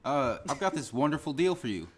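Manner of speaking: telemarketer pitch. Pretend. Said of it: "Sell us something".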